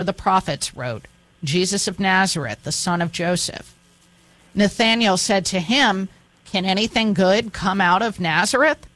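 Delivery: expressive Bible reading, lifting the quoted speeches; scripture reading. Acted. Host reading the calling of Nathanael, expressive scripture reading. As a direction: read the Gospel aloud, voicing its dialogue lightly.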